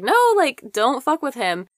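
mock Nicole pleading. Nicole jumping in to stop Mark, high mock plea. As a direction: pitch it way up as she steps in.

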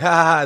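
villain's fake group laugh; ha ha ha like movie henchmen; bad guy laugh. Henchmen laughing once the deal is okay, hammed-up villain laugh. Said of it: "that bad guy laughing".

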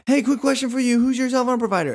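high, bright-toned carny call; chirpy salesperson. Retold or imitated. Cell phone salesperson carny-calling at shoppers, high and chirpy. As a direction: reel in a passerby with a perky pitch.

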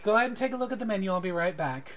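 breezy parting line, fast; smiling server. Acted. Server leaving the menu with the party, smiling and quick. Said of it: "she smiles and she says".

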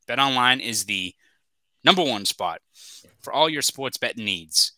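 upbeat sponsor read. Acted. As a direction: sell it like a radio spot. Reads a sponsor ad.

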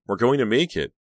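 thrilled to be escaping; surge of hope. A narrator's reading. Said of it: "felt a surge of hope".

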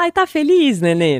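put-on high, loud cooing to a baby; baby talk. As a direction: coo it brightly at the smiling baby. (voz de falar com bebê, bem aguda e alta)

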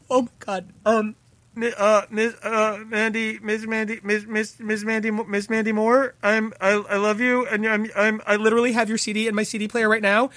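high, stammering fangirl gush; flustered fan gushing. Retold or imitated. Teen fan meeting a pop singer, high flustered gushing. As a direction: trip over her name in giddy awe.

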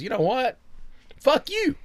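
high, loud burst of defiance; high-pitched acted outburst; defiant retort. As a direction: throw it out loudly, mock-furious. Acts out his defiant reaction.

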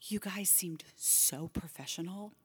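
slow, hushed whisper of awe; awed whisper. Retold or imitated. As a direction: breathe it in awe. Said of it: "she said".

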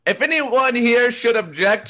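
officiant. Acted. Officiant asks for objections.

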